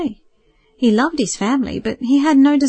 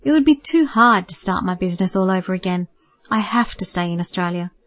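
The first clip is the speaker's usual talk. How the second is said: kindly. Acted. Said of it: "he replied kindly".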